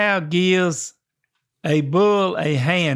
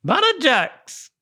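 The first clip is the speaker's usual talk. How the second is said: put-on high, drawn-out Irish accent; slow, high Irish lilt; 8 semitones higher than usual. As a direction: announce the slang word in hammed-up Irish. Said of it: "You gotta use an Irish accent".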